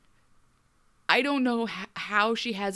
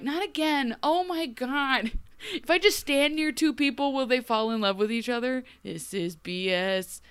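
higher, exasperated mock grumble; exasperated Mulan; 5 semitones higher than usual. Mulan stirring alone near the couple, mock exasperation. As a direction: roll your eyes as the third wheel. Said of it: "being like".

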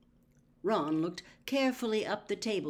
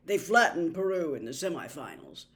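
louder, lightly voiced keen young man; Charlie's voice; 6 dB louder than usual. A narrator's reading. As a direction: boast the scoreline. Charlie voice continues.

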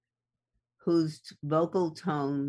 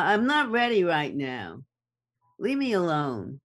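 brushing someone off, a bit louder; impatient, dismissive push-away; nasty tone; 3 semitones higher, 4 dB louder than usual. Shown as a demonstration. Demoing a nasty tone, a partner being shut out. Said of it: "nasty tone of voice".

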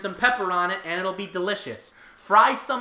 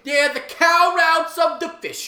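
slow emphatic; 6 semitones higher, 6 dB louder, much slower than usual. Real, not acted. Slow loud emphatic coinage.

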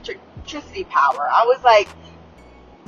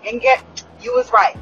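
pitched way up in mock defeat; mock squeaky concession. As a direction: squeak it out like a grudging confession.

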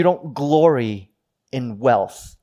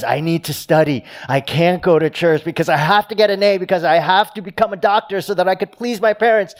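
higher, louder pressured student; mild imitation of a stressed college student; anxious student; 5 semitones higher, 3 dB louder than usual. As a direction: rush out the excuses of a stressed student.

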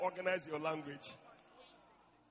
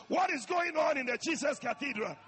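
louder mock wondering question; heaven asking; 7 semitones higher, 7 dB louder than usual. Heaven wondering about the cathedral, lightly voiced. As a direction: ask like heaven peering down. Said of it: "heaven will be asking".

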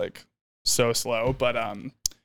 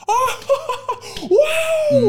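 high laughing whoa; mock excited; 6 dB louder than usual. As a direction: gush with delight up high. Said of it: "like, being".

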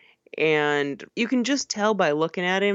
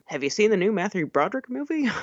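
quicker, higher eager question; imagined moviegoer; 5 semitones higher, faster than usual. Acted. Imagined fan asking a friend about a new movie, mock eager. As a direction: ask it like a keen film fan. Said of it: "get people to go".

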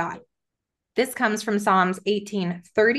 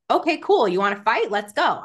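defiant challenge. Retold or imitated. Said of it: "And so I'm aware of it".

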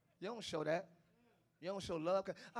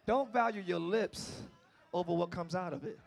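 gentle restatement; 3 semitones lower, 3 dB quieter than usual. Shown as a demonstration. Preacher restating his point gently to the women. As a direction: say it kindly, softer. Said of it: "That's what I mean to say".

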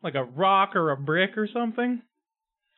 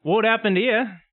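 surprised exclamation; 6 semitones higher, 3 dB louder, slower than usual. Acted. Acting surprised at broken window.

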